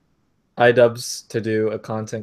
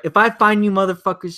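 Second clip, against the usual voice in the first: higher-pitched mock threat; imitated rage; 8 semitones higher, faster than usual. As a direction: play an enraged streamer threatening viewers. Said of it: "next thing he rages".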